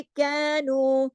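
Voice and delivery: कैनू light and thin, mouth not opened wide; light letter demo. Shown as a demonstration. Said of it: "बारीक letter".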